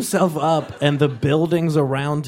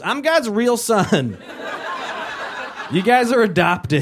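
smug slow brag; 6 semitones higher, slower than usual. Retold or imitated. Jesus smug retort.

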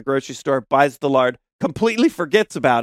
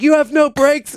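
much higher, louder disbelieving question; incredulous passenger; 9 semitones higher, 4 dB louder than usual. Retold or imitated. Hitchhiker learning the car has no brakes, mock shocked. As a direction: gasp it out like he can't believe it. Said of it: "And the guy's like".

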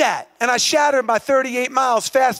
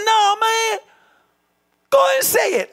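much higher-pitched prodding; insistent urging; 10 semitones higher than usual. Retold or imitated. Chad urging the broken runner to say it, high insistent push. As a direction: push him to say it, high and keen.

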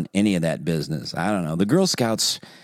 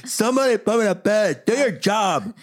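put-on much higher whiny child; little kid voice; 13 semitones higher than usual. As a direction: play a demanding toddler. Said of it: "imitating little son".

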